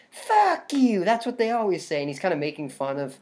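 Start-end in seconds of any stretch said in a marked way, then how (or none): 0.1-2.0 mock villain quip. Friend retelling a horror killer's taunt to co-host, mock sneer. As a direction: mockingly quote the killer's line. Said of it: "and he's like".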